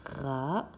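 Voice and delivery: "Ra-dia-teur" in three isolated syllables, long gaps between; découpage syllabique. Shown as a demonstration. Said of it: "il y a trois syllabes". (« Ra-dia-teur » détaché en trois syllabes)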